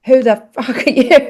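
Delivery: a touch of heated indignation; mild retold anger. Mother telling off the housekeeper, mildly heated. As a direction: punch the swear, lightly indignant. Mother retells angry retort.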